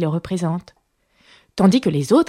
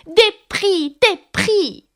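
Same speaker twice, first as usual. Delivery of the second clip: high, clamouring crowd cry; pitched-up, insistent calling; tumultuous clamour; 11 semitones higher, much slower than usual. A narrator's reading. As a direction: chant the demand like a noisy mob. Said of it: "en criant tumultueusement".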